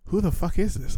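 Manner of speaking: high, incredulous mock question; retold confusion. Reacting to an old match's message, mock baffled. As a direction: act baffled at an unknown message. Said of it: "And I was like".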